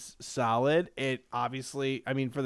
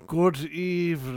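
Alfred Hitchcock; 2 semitones higher than usual. Retold or imitated. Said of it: "Alfred Hitchcock from Beyond the Grave".

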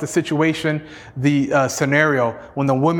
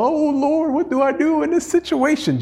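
much higher, hammed-up panicky cry; mock panic; 10 semitones higher than usual. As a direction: play a frantic nervous wreck for laughs. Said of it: "He didn't get all uptight, nervous".

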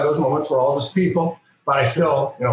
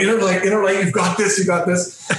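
higher, quick self-pep talk; nervous pep talk; 5 semitones higher than usual. Retold or imitated. Nervous fan psyching himself up before meeting Picard, excited. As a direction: psych yourself up before meeting your idol. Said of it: "my heart's just going".

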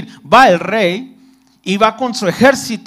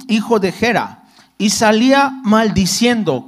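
lectura bíblica. Acted. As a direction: read the verse out to the congregation. Reading scripture aloud. (leyendo la Biblia en voz alta)

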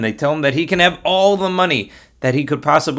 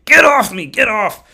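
high, loud, acted desperation; exasperated high-pitched cry; frantic shout; 9 semitones higher, 5 dB louder than usual. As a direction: yell to get a weight off you. Donkey sitting on Bilam's leg.

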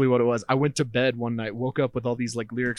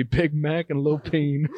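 slow announcer hype; 3 semitones higher, slower than usual. Pretend. Announcing the duo.

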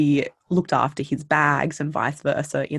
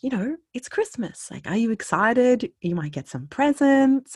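high, eager and louder; eager chirpy question; 8 semitones higher, 4 dB louder than usual. Retold or imitated. A chatty woman asks a stone-faced stranger about Christmas, eagerly. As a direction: pester him with cheer.

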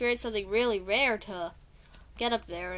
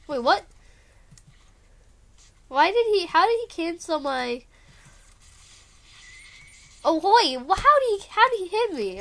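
raging gamer; 6 semitones higher, 7 dB louder than usual. Real, not acted. Gamer getting hit, confused outburst.

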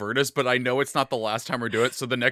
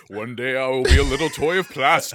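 unearthly voice; 3 semitones lower, 5 dB louder than usual. Pretend. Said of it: "His demon god shows up in the fire".

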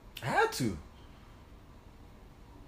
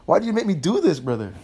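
mock angry yell; 5 semitones higher, 5 dB louder than usual. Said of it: "I was meeting him like".

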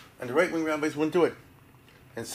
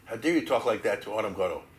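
fast, softer indignant retort; 3 semitones lower, 4 dB quieter, faster than usual. Retold or imitated. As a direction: cut him off, offended. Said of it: "David said".

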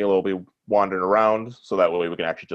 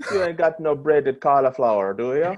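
slipping into a mock Irish lilt; light Irish brogue, half-hearted; Irish accent; 5 semitones higher, 4 dB louder than usual. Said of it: "That was Irish".

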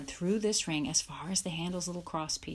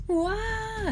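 high, loud animal cry; bawling calf; 5 dB louder than usual. A narrator's reading. Star bolts with the sled, bawling. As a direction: bawl like a startled calf.

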